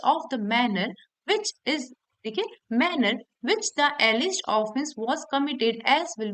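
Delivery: slow, deliberate reading of legal text; slow, careful reading of a law clause to students; slow statute reading. Shown as a demonstration. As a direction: read the section out word by word, slowly. Reads bare act provisions aloud.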